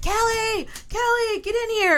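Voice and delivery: very high, drawn-out panicked scream. Retelling a biscuit mishap, the speaker acts out a man calling for her, retelling a panicked scream. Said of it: "I hear Jimmy screaming".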